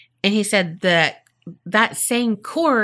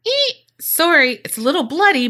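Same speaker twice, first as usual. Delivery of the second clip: mock sheepish bellhop; 8 semitones higher than usual. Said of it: "I love how he was like".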